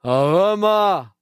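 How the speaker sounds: slow mock meme. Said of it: "Da sagt einer".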